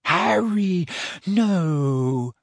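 high, pleading moan; anxious plea sliding downward. A narrator's reading. Hermione restraining her friend, moaning. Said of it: "moaned Hermione".

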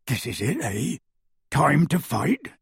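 a grim question; Hagrid's voice. A narrator's reading. Hagrid asks Harry if the fight is starting, lightly voiced.

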